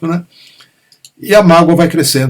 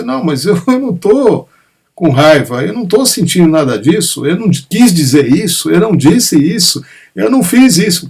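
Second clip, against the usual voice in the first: higher-pitched, insistent denial with a nervous laugh; defensive partner protesting; 3 semitones higher, 3 dB louder than usual. Retold or imitated. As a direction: protest your innocence, pitch climbing. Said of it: "fala assim". (parceiro na defensiva, voz mais aguda, negando tudo)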